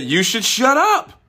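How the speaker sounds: a hint of impersonating Bill Burr; quoting Bill Burr. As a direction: repeat his words with mock insistence. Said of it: "He said".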